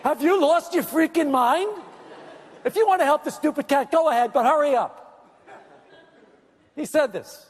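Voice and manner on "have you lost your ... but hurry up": agitated, higher-pitched mock outburst; imitating someone going crazy; freaking out. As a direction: act out an exasperated friend losing it. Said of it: "he went crazy".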